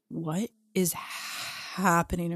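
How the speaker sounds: slow, drawn-out bewildered question; halting, dumbfounded delivery; stunned disbelief. Retold or imitated. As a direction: stretch each word in retold bafflement. Stunned at mom's sobbing, retold.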